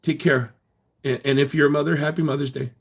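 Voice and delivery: high, whiny mock of critics. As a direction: mimic them with a high sneer. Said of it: "They're like".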